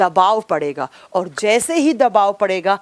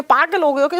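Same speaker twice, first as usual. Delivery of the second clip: higher, irritated rhetorical jab; exasperated scolding; 5 semitones higher than usual. Real, not acted. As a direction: scoff at them in disbelief. Teacher scolds students over comments. (झुँझलाकर ऊँचे सुर में ताना)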